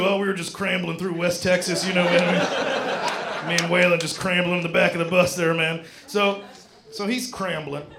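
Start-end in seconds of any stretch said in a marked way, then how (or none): 0.0-5.8 lightly voiced laid-back country drawl; a hint of an old outlaw country singer reminiscing; country singer drawl. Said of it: "something a country singer would have made up".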